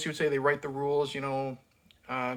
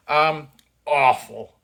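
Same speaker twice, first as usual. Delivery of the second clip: slow, louder, disgusted "Um, awful"; drawn-out disgust; 7 dB louder, slower than usual. Real, not acted. Reviewer passing verdict on the actor, slow and disgusted. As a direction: stretch "Um, awful" out in weary disgust.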